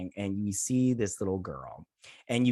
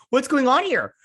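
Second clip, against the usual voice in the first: excited disbelief; 13 semitones higher, 8 dB louder than usual. Retold or imitated. Recalling shock at the episode.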